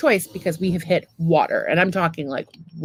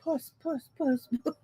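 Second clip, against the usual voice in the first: coaxing call; 6 semitones higher, 8 dB quieter than usual. Pretend. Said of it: "Just be like".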